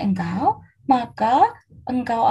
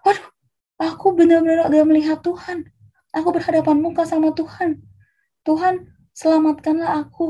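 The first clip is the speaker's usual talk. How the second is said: higher-pitched pleading dismay; acted alarm; 4 semitones higher than usual. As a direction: plead for your life, mildly hammed-up. Gideão teme morrer, implora.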